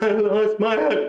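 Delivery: high, stretched mock wail; imitated screaming child. Kid still bawling over lost money, high mock wail. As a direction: keep up the kid's high bawling. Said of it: "He's screaming".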